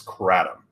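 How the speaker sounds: KRATOM with short A, as in cat; first pronunciation. Shown as a demonstration. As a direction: say kratom as KRAT-um. Shows two pronunciations of name.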